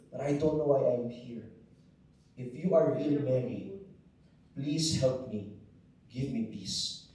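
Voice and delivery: pleading quietly through remembered tears; a hushed, desperate prayer, half-retold; retold tearful plea. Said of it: "started crying and crying".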